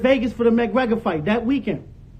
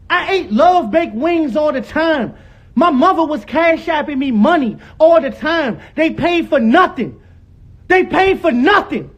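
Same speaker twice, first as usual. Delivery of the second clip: raised voice. Real, not acted. Son arguing his mother paid his way, raised voice. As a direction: protest hotly, stretching the key words. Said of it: "Stop yelling".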